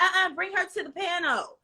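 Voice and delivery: high-pitched, playful command; insistent summons. Pretend. Excited crowd demanding her for the panel, playfully insistent. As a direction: call for her like an eager crowd.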